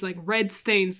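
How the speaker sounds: ordinary delivery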